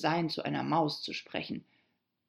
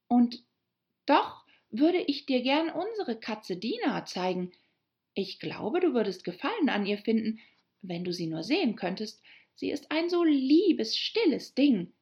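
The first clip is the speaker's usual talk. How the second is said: put-on higher, lilting girl character; schwärmende Alice; 5 semitones higher than usual. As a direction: talk fondly of a beloved cat as Alice. Alice chatting fondly about her cat. (schwärmerische, erhöhte Mädchenstimme)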